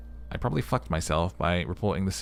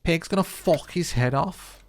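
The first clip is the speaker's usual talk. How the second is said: high, slow mock disbelief; incredulous character; 11 semitones higher, 4 dB louder, slower than usual. Kid asks if the pig cuts his head off, incredulous. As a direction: sneer the question.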